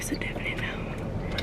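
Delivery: slow whisper on "definite no". Real, not acted. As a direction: breathe "It's a definite no" slowly. Whispered emphatic repeat.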